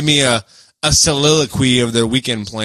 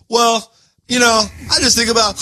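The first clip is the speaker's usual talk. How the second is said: higher-pitched mock of someone talking while eating; imitating a mouth-full talker; 8 semitones higher than usual. Co-host mocking people who talk while eating, mouth-full imitation. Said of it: "Like, they'll say".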